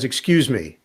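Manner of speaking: lightly voiced polite opener; understated, even approach to a stranger; Kyrie. Player to the man with the newspaper, politely understated. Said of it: "And Kyrie says".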